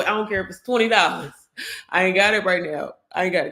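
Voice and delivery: earnest pleading to God, rising at the peak; pleading prayer. Retold or imitated. Fasting and begging God for guidance, an earnest rising plea. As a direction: beg God for a sign, voice swelling.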